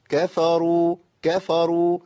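unforced "kafaruu", only the ending held; effortless. Shown as a demonstration. Teacher modelling for students, easy pronunciation. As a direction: say كفروا evenly with short open a vowels. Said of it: "أنا ما بذلت مجهود".

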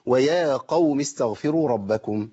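slow, measured tajweed recitation of ويا قوم استغفروا ربكم; slow chanted Quran reading. Shown as a demonstration. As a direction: recite it slowly, lengthening each vowel. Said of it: "يبقى إيه".

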